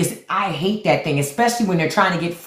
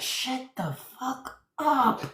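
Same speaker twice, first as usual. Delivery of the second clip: failed whisper; 7 semitones higher, 7 dB quieter, much slower than usual. Retold or imitated. Imitating her husband hushing her, mock stage whisper. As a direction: mimic him trying to whisper. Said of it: "He thought he was whispering".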